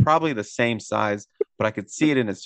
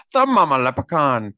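badly faked Irish lilt, a bit louder; terrible Irish accent; 3 semitones higher, 5 dB louder than usual. Mocking a leprechaun kid's mom with a bad Irish accent. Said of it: "That was a terrible accent".

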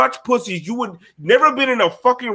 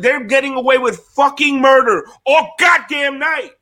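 shouting in real rage at the refs; furious shout; 2 semitones higher, 3 dB louder than usual. Real, not acted. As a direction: yell it out, fed up. Ranting at referees, shouting.

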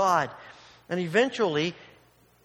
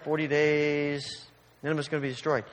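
unenthusiastic; 4 semitones lower than usual. Retold or imitated. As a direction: drag it out like he couldn't care less. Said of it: "I don't picture Jonah doing that with a lot of enthusiasm".

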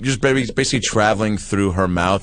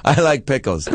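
pull string toy; 4 semitones higher than usual. Pretend. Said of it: "Pull the string".

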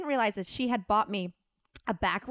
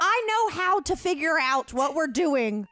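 laughing; 9 semitones higher, 4 dB louder than usual. Real, not acted. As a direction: talk while cracking up. Laughing mock complaint.

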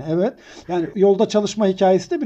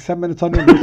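mock challenge; 3 semitones lower, 6 dB louder than usual. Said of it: "birbirimize girdik".

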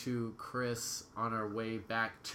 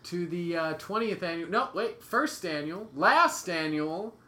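high, hammed-up host intro; show host; 4 semitones higher, 4 dB louder than usual. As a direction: announce it like a game show. Announcing the show.

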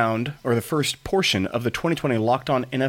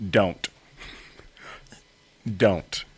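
emphatic don't; 5 semitones lower, 5 dB quieter than usual. Retold or imitated. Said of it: "the most emphatic "don't".

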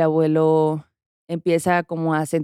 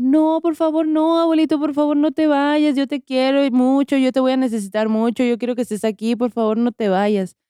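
high, mildly tearful begging; a touch of a crying little girl pleading; pleading through tears; 5 semitones higher than usual. Retold or imitated. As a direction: beg grandpa not to leave, like a small child. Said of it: "comenzó a llorar".

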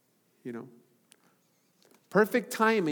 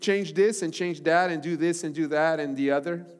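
mock demanding prayer; 9 semitones higher, 7 dB louder than usual. Mocking demanding prayers to God.

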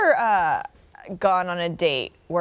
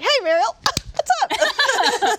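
high cheery greeting; 4 dB louder, much slower than usual. Retold or imitated. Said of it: "it's like".

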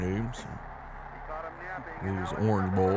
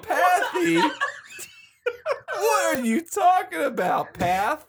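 much higher, breaking into laughter; laughing through it. Real, not acted. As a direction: squeeze the words out while cracking up. Laughing while retelling husband.

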